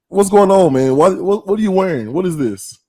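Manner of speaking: pitched high, playful disbelief at his outfit; host ribbing the mayor over his rival team gear, in mock outrage. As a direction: tease him like you're scandalized.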